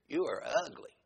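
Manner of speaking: mock parrot insult. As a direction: say it like a talking parrot. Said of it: "Like that".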